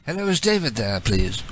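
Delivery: lightly put-on British voice; mock British accent. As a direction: play a polite British caller. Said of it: "switch to my British voice".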